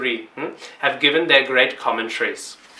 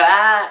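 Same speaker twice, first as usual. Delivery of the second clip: imitated child's cry; 4 semitones higher, 4 dB louder than usual. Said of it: "They go".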